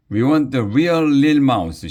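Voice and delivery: high, loud heckle; shouted demand. A narrator's reading. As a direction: shout it from the crowd. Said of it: "shouted Alexia".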